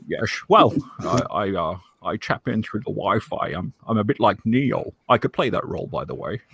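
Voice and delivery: Sean Connery impression. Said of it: "That's a great Sean Connery accent".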